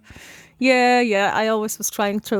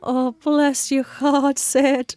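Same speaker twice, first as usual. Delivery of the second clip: higher, slow, drawn-out sympathy; tender, lingering consolation; sympathetic; 5 semitones higher, much slower than usual. Real, not acted. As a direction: coo it with pity. Host consoles the embarrassed storyteller.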